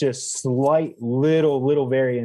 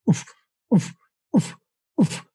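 A singer's voice; 7 semitones higher than usual. Shown as a demonstration. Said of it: "that singer's voice inflection".

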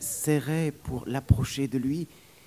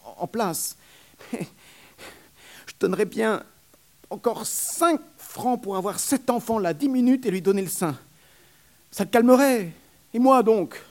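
rising, louder, higher pleading nurse; compassionate nurse; 7 semitones higher, 6 dB louder than usual. Acted. Nurse pitying the ragged mother, rising higher. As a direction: let pity swell into longing. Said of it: "d'un ton compatissant".

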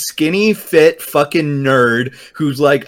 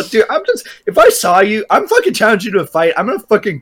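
hyped threat; 7 semitones higher, much faster than usual. Real, not acted. Threatening bravado rant.

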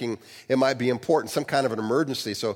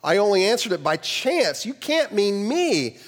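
higher, baffled questioning; shaken and perplexed; 6 semitones higher than usual. A narrator's reading. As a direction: sound rattled and confused. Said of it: "Still shaken and perplexed".

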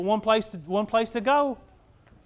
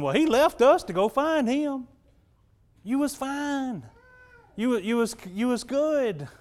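mildly sulky, higher-pitched mock complaint; pouting; 5 semitones higher, slower than usual. One of the ninety-nine left behind, mock pouting. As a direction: imitate a sulk, pitched up. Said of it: "standing over there pouting".

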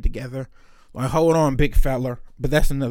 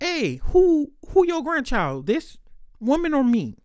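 high pleading; 10 semitones higher, slower than usual. Retold or imitated.

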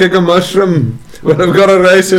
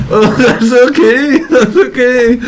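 laughing through the words; breaking up with laughter, near tears; 6 semitones higher than usual. Real, not acted. Laughing, mock crying.

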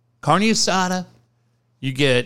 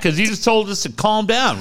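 laughing; 6 semitones higher than usual. Real, not acted. Laughing back at friend.

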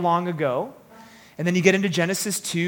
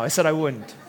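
ordinary talk, nothing marked

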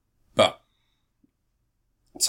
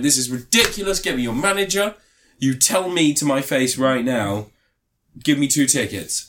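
indignant, pitched up demand; entitled customer; 2 semitones higher than usual. Retold or imitated. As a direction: play the outraged customer. Demanding tickets at counter.

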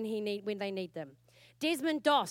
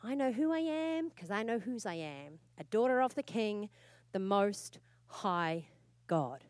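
a hint of a child's bedtime prayer; recited child's prayer. Mother reciting her daughters' nightly prayer, lightly. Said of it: "that prayer that Aaron gets our girls to say".

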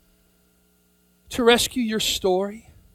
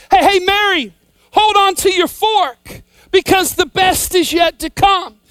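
raised, higher call to Mary, urging; 5 semitones higher than usual. Pretend. Preacher calling out to Mary to hold on, raised voice. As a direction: call out to her across the story. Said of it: "I wanna say".

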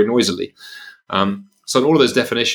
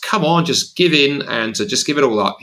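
mock coaxing; 5 semitones higher than usual. Voicing the voice urging surrender.

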